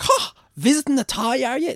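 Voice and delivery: put-on a nosy old local quizzing strangers; hammed-up old countryman, high and loud; old man on train. Old man voiced again.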